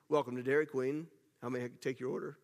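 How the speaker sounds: low, soft drive-through greeter; sultry Dairy Queen voice. Shown as a demonstration. Dairy Queen worker greeting drive-through customers, low mock-sultry voice. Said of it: "develop my Dairy Queen voice".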